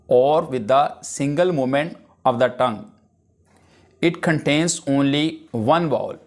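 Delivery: slow, deliberate dictation pace; dictation reading. Acted. Teacher dictating a definition to the class, slow and measured. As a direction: read the definition out slowly for students to copy. English definition read slowly.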